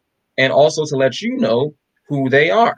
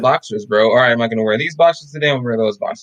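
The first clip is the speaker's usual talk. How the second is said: deadpan mock explanation; sarcastic. Mock-explaining choice like picking boxers, sarcastic. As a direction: play it straight while meaning the opposite. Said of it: "Yes, I'm being sarcastic".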